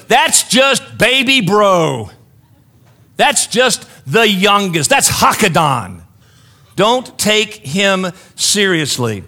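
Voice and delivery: slow, emphatic mock put-down; dismissive siblings. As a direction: brush off the little brother, weighting each word. Siblings dismissing the youngest, retold.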